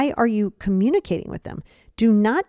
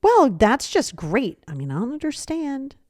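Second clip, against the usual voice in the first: snarky; 4 semitones higher than usual. Shown as a demonstration. Person responding to a letdown, snarky under the breath. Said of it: "people will respond very snarky".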